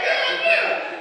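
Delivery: way up high and loud; high, loud mock groan of disbelief; exasperated exclamation. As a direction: cry it out in mock despair. Fed up at long light.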